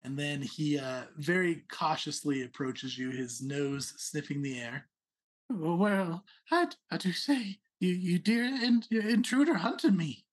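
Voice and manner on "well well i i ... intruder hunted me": lightly raised, pompous little prince; a hint of a haughty rabbit noble.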